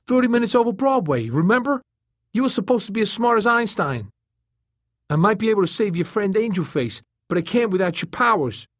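very high, urgent turtle voice. A narrator's reading. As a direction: challenge him, pitched right up. Turtle's dialogue.

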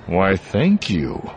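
slow, through gritted teeth; fake-polite, barely hiding irritation; forced politeness. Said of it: "gritted his teeth at the little service droid in something like a smile".

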